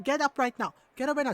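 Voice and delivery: imitated mom's repeated order; scolding mom. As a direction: insist like a mom who expects obedience. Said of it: "like, the mom tone and everything".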